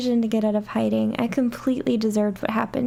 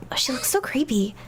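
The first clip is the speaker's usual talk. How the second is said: ordinary delivery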